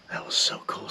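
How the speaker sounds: soft, hushed recap; quiet hunting-blind murmur; whispering. Real, not acted. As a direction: half-whisper to the camera. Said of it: "I don't know why we're whispering now".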